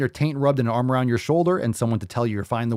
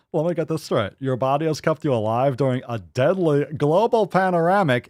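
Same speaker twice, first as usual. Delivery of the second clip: light copy of the smiling guy; imitating the video guy; 3 semitones higher, 3 dB louder than usual. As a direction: mimic him through a grin. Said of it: "let me try to".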